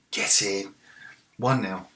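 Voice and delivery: loud, triumphant cheer settling down; goal celebration. Real, not acted. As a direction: celebrate the goal loudly, pitch easing back.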